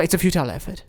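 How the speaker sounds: soft, dismissive British voice; fake British accent. Inner critic calling the effort futile, fake British accent. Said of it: "your fake British accent".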